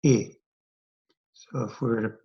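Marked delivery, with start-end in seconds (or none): 0.1-0.3 "I" said as a short "ih"; short I sound. Shown as a demonstration. Teacher showing the breve's effect, "I" as short "ih". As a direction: clip "I" to the short vowel that starts "itch". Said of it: "the I is short".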